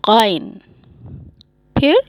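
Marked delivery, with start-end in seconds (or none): 0.1-0.5 "غائن" with gh pulled from the throat; gargled heavy gh opening "غائن", falling tone. Shown as a demonstration. Teacher telling students to use the throat, throaty "غائن". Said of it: "اس کو آپ حلق سے نکالیے".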